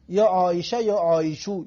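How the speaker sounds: یا عایشه then یا عایشو, last vowel turned to o; two endings of the name. Shown as a demonstration. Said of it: "آخرش رو چی حرکت بتین". (تلفظ دو گونه یا عایشه و یا عایشو)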